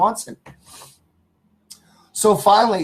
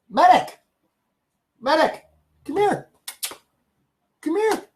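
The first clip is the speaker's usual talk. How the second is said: calling the dog; 11 semitones higher than usual. Real, not acted. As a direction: call the dog over, up high.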